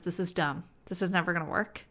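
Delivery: the nagging inner doubter; doubting inner voice. Retold or imitated. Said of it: "little voice in the back of our head that says".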